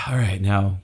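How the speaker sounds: sigh, then a let-down challenge; imitated unimpressed crowd. Audience to famous comic once awe wears off, unimpressed. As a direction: deflate with a sigh, mildly unimpressed.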